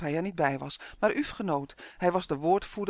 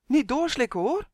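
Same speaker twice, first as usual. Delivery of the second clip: high, urgent little warning; 8 semitones higher, 5 dB louder than usual. A narrator's reading. Elf cautions Justin not to swallow, high warning. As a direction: warn in a raised, louder voice. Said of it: "waarschuwde Uf".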